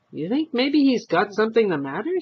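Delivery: lightly voiced fretful old wife; a hint of a nosy old lady; old woman's voice. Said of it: "she asked".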